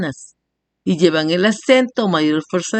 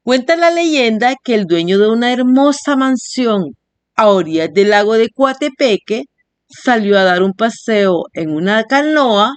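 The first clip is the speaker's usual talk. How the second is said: legend read aloud; 4 semitones higher than usual. A narrator's reading.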